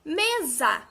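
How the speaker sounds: mesa loud, in two clear syllables; teacher's emphatic demo of mesa; stress on ME. Shown as a demonstration. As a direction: draw out mesa as me, za with ME strong. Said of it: "Qual a sílaba mais forte?".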